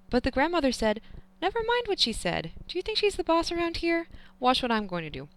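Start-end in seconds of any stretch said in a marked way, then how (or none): 1.4-5.3 higher voiced old grandfather, bossy; grandfather's voice. A narrator's reading. Grandfather overruling grandmother, bossy and teasing. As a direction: play the grandfather showing who's boss.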